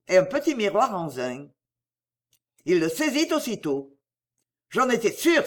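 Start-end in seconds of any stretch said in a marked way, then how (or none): 4.7-5.4 exclaiming. Acted. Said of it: "s'écria-t-il".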